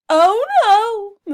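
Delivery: high cow cry of dismay; mooing cow. Acted. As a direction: moo in alarm. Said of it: "mooed Abigail".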